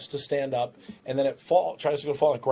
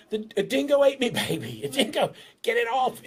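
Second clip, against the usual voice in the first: mock panic; 11 semitones higher than usual. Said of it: "so they think".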